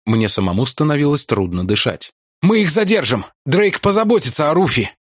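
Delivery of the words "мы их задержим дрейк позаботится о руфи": shouting. A narrator's reading. Shouting back while running.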